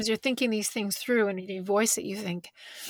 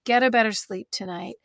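tender mother voice. Retold or imitated. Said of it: "We say".

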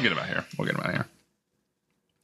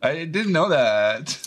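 mock surprise; 6 semitones higher, 3 dB louder, much slower than usual. Mock astonishment about dad.

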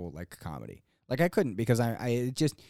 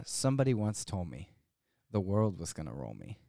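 mock poetry reading; 5 semitones lower, 5 dB quieter than usual. Comic reading a poem off his phone at the gong show, deadpan. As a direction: read lyrics solemnly as a poem, with pauses. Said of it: "I'm reading it off my phone".

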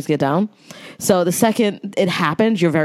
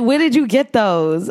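lightly imitating the lady's hood New York accent; 6 semitones higher than usual. Lady chasing her down over shoes, in a light hood New York accent. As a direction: ask where those came from, New York style. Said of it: "that was her accent".

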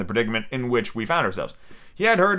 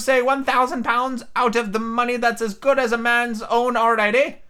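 Ben Gunn voice; 9 semitones higher than usual. A narrator's reading. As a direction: confide like a lonely hermit.

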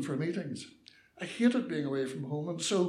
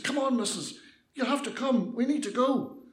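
higher, pressing plea to get moving; urgent coaxing; 6 semitones higher than usual. Acted. Young man urging old lady off the bus, urgently coaxing. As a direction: urge a frightened person along.

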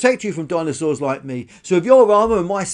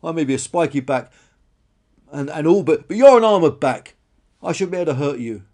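loud, halting insistence; roared protest, easing off; 5 semitones higher, 11 dB louder than usual. Acted. Spiky dinosaur reasons with the fleeing one, loud and insistent. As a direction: argue loudly, stumbling over words. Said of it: "Karen roared".

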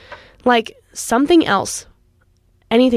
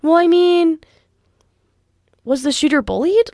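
mocking dismissive quote; 6 semitones higher than usual. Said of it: "and are just like".

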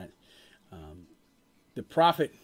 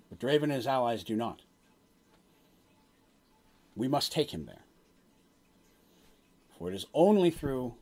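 solemn prophet; 3 semitones lower than usual. Acted. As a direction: deliver a grave omen, phrase by phrase. Game master voices the prophet's prophecy.

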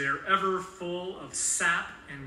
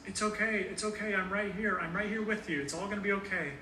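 higher, gentle reassuring voice; soothing dad; 4 semitones higher than usual. Retold or imitated. Father comforting his crying newborn daughter, gently reassuring.

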